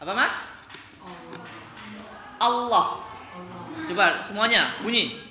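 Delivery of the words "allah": Allah with a thick, full heavy L; correct Allah. Shown as a demonstration. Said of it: "yang benar bacanya sudah Allah".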